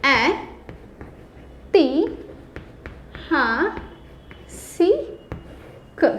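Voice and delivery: ऐतिहासिक split into ए, ति, हा, सी, क with long pauses; syllable by syllable. Shown as a demonstration. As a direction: break ऐतिहासिक into single syllables. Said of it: "बड़ा ए आता है".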